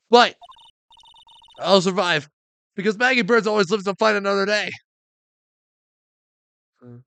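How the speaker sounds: loud, high plucky declaration; unlucky officer swearing she'll bounce back, defiantly; defiant Maggie. Acted. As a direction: vow it like a fighter who never quits.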